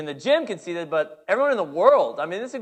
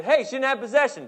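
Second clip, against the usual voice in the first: raised, high protest; protesting to the ref; 9 semitones higher, 3 dB louder than usual. Retold or imitated. Coach protesting to the referee, raised high voice. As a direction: call out to the ref in complaint. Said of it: "talking to the referee".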